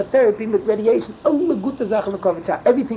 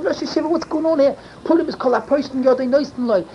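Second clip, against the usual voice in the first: raised, high insistent yell at the rabbi; retold yelling; 7 semitones higher, 4 dB louder than usual. Demanding loudly from Rav Moshe for the childless man. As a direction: demand it loudly, pushing hard. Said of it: "I start yelling".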